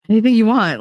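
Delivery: mock overeager. Billy overeager after her yes.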